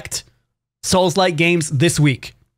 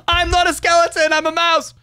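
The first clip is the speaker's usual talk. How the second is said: high-pitched mouse voice; squeaky, put-out cartoon mouse; indignant mouse; 13 semitones higher than usual. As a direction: protest in a very high little mouse voice. Squeaky mouse answers the question.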